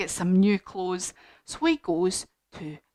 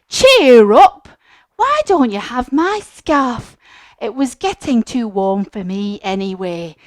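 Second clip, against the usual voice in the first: cheerful comfort; 6 dB louder than usual. Acted. George comforting the giraffe.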